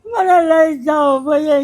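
real sobbing plea; crying. Real, not acted. Woman begs the man to take her away, sobbing. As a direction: beg through sobs to be taken away. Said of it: "રડવાનું નહીં".

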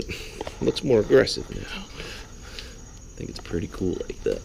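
hushed, slow admiring whisper. Real, not acted. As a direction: whisper it like it's a cool secret. Admiring the result.

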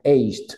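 "aged" with the last consonant hit hard, like eisht; marked final D. Shown as a demonstration. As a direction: close firmly on the end of "aged". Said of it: "esa D al final tengo que marcarla".

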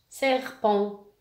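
"Serpent" said firmly as two distinct syllables, ser and pent; clear word model. Shown as a demonstration. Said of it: "نسمع الكلمة ونحاول نلقى".

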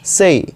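से as sei, a light i glide; correct say. Shown as a demonstration. Teacher models से for students. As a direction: say से ending in ee. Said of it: "क्या pronounce करेंगे आप".

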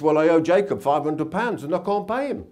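put-on lightly moaned in a Jewish accent; mock groaning husband with a Jewish accent; moaning Jewish husband. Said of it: "he was moaning".

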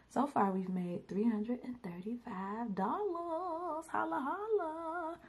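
soft, slow whisper of disbelief; awed whisper. Real, not acted. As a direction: whisper it like a secret you can't believe. Reads sales total, overwhelmed.

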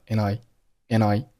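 "N I" run together as one word; linked AND I. Shown as a demonstration. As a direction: slide the n straight into "I". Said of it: "N和I连读成了N I".

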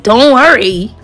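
punchy, incredulous mimicked repeat; incredulous echo. Girl echoing the date's reassurance in her head, incredulous. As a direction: throw his words back in disbelief.

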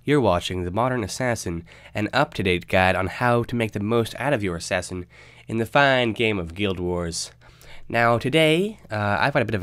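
stuffy nose, a bit nasal; nasal voice from a cold. Real, not acted. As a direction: talk through a head cold. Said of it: "excuse the nasally voice".

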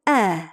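"Е" drawn out, mouth open as for А; wide open E. Shown as a demonstration. Teacher shows how the sound comes out, wide open "Е". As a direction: say a long, very open "Е". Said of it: "Бачите, який він відкритий, широкий".

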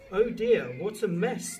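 wolf lightly groaning in dismay. A narrator's reading. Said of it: "the wolf groaned".

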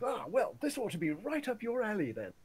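loud, high imitation of a general; retold general. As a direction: crow it as a delighted mock general. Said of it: "So the general comes back with".

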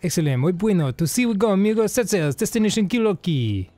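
mock Spanish accent, muddled; vague foreign accent. Announcing next episode's destination, vague Spanish-ish accent. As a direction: put on an all-purpose foreign accent. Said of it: "like, a foreign voice".

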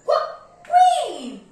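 "qu-" breathed, then "queen" high and loud; sounding out Q. Shown as a demonstration. Teacher sounds out "queen" for the class, high and loud. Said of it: "Let's do action of letter".

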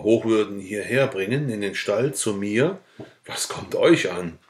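plain reading voice

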